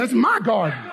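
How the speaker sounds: "my" hit firmly, "garden" falling away; emphatic, declarative "my garden"; like you mean it. Shown as a demonstration. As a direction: lean hard on "my" in "my garden". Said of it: "Say it like you mean it".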